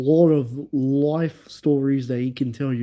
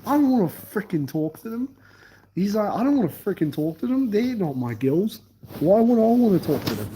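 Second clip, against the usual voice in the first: indignant quote; 5 semitones higher than usual. Retold or imitated. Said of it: "Jardel's like".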